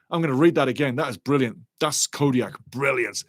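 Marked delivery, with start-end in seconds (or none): none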